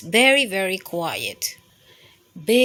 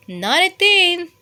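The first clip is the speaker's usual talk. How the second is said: high mouse voice; 9 semitones higher, 7 dB louder than usual. Acted.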